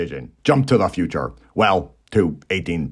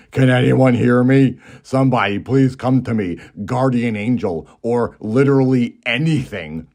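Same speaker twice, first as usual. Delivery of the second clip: slightly raised, mock-desperate plea; hint of a melodramatic maiden; pleading maiden; 3 semitones higher, 3 dB louder than usual. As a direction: lightly act out a lonely maiden begging for company. Lonely maiden pleads for company.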